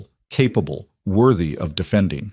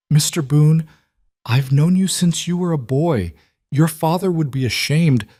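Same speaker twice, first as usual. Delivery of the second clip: indignant scolding; 7 semitones higher than usual. Acted. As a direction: let the outrage spill over at him. Shopkeeper scolds, face red.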